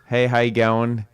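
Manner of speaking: put-on hesitant, stereotyped Australian accent; attempted Australian accent. American attempting his friend's accent on request, amateur Australian. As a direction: try an Australian greeting, not very well. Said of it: "I can't do an Australian one".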